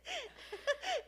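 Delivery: a burst of high-pitched giggling; high squealing laugh. Real, not acted. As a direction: let a shrill giggle break out. Teasing friend about to cry.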